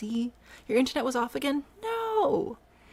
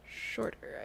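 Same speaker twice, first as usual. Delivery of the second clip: soft mock command, "Shorter" insisted; 8 dB quieter than usual. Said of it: "I say".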